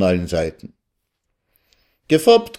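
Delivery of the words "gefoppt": Gefoppt yelled very high with a rising lilt; gleeful shout. A narrator's reading. Salme Floh crows Gefoppt at the guests, high rising shout. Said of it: "schrie der Rätselsteller".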